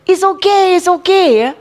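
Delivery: put-on a parent quickly hushing a crying child; mock soothing parent. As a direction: brush the hurt off brightly. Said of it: "you don't say".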